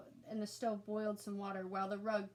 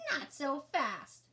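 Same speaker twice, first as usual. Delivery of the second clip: slow, louder drawn-out monster voice; slow monster tub; 5 semitones higher, 5 dB louder, much slower than usual. A narrator's reading. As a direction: drag the words out menacingly.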